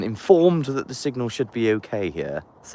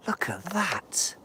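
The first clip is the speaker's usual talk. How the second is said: hushed whisper; 7 semitones higher, 11 dB quieter, slower than usual. Pretend. Awed at the pine trees.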